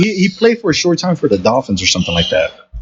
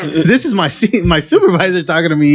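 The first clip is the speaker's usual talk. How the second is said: indignant; 5 semitones higher than usual. Retold or imitated. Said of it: "I was like".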